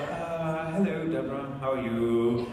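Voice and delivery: drawn-out, polite British greeting; sing-song British hello; British accent. Retold or imitated. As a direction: greet her in a put-on British voice. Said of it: "talk to her in this accent".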